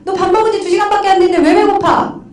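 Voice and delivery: high, loud, laughing scold of 왜 배고파; a mother laughingly scolding her child; mock exasperated mom. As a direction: play the mother who dismisses the hungry kid. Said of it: "제일 말 같지 않은 대답이".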